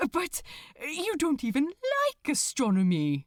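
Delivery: gently amazed angel; lightly voiced Aziraphale. Aziraphale marveling at the demon, lightly voiced, astonished.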